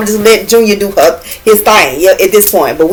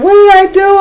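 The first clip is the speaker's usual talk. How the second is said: retold panic; 12 semitones higher than usual. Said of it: "I was like".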